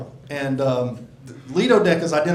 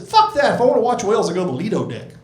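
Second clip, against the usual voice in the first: mock retort; 5 semitones higher, much faster than usual. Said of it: "I said".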